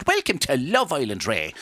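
exaggerated lilting Irish accent, up and down; sing-song stage-Irish announcer welcome; leprechauny Irish narration. Shown as a demonstration. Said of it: "I have to talk a lot more like this".

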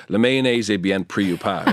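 put-on speaking French with a French accent. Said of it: "sorry for my French accent".

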